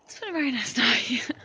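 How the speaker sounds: laughing whisper late at night; tipsy whisper. Real, not acted.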